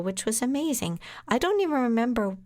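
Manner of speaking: ordinary delivery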